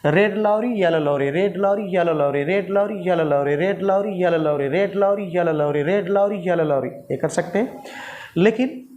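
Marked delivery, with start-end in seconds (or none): 0.0-6.9 red lorry in a native Indian accent; tongue twister with an Indian r; Indian touch. Shown as a demonstration. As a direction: practise it in your own Indian way. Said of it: "अपने जो native टंग है, यहाँ के जो Indian touch है".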